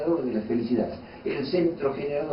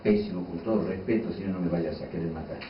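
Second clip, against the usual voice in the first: mock complaint; 4 semitones lower, 3 dB quieter than usual. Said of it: "Y yo me molesto y digo".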